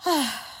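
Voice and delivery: deep sigh. Retold or imitated. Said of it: "I would take a deep breath".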